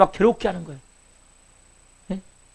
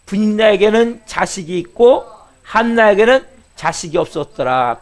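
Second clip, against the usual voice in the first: slow, measured unison reading of the text; scripture reading; slower than usual. Acted. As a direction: read it out slowly, together with the congregation. Leads congregation in scripture reading.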